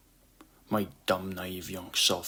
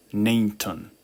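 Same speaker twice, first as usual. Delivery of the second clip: cold; 5 dB louder than usual. Acted. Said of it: "I answered coldly".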